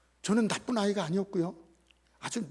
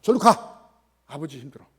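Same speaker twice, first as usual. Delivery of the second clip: shooing away; 4 semitones lower, 7 dB louder than usual. Retold or imitated. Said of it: "손자들은".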